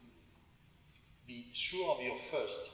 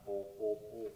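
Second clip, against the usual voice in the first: hollow "oh" pulses without attack; synthesizer-like notes; 3 semitones lower than usual. Shown as a demonstration. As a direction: mimic lifeless synthesizer tones. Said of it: "it would be a synthesizer".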